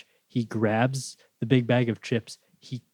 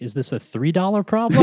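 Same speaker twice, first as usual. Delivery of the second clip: mock Hungarian dad; 8 semitones higher, 7 dB louder than usual. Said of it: "is like".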